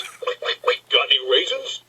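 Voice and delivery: quacky, voiceless "quick, quick, quick"; joke duck. Acted. Duck asks bartender for raisins, quacking voice. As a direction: quack out the repeated word like a duck.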